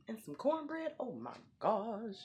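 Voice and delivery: high, drawn-out foodie excitement; high excited gushing about cornbread. Real, not acted. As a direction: gush over the cornbread.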